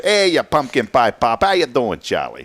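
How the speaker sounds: mock northern accent. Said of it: "Sounds kinda northern".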